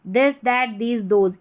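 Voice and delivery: "this, that, these, those" each opening on dental d. Shown as a demonstration. Teacher listing TH examples, "this, that, these, those" with द. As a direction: list "this, that, these, those" with a voiced d at the teeth. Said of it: "इनमें टी एच को द पढ़ा जाता है".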